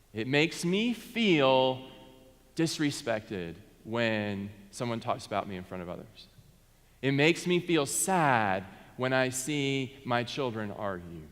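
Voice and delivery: slow, even, no accusation; a pastor modelling calm family talk, slowly; calm example. Shown as a demonstration. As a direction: say it plainly and gently, just naming the feeling. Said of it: "Just saying it very objectively, very calmly".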